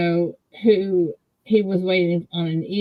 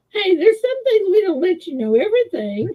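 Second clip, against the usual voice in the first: teasing laugh; 12 semitones higher, 3 dB louder than usual. Real, not acted.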